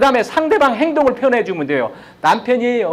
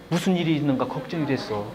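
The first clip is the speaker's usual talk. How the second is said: soft, lower voice of sincere concern; gentle worry; 6 semitones lower, 9 dB quieter than usual. Shown as a demonstration. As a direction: say it quietly, like you truly worried. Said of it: "행동 그대로만 표현하면 돼요". (조용하고 진심 어린 걱정의 말투)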